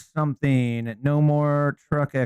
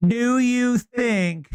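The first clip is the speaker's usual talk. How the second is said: mocking reporter; 4 semitones higher, much slower than usual. Mimics reporter's question from clip.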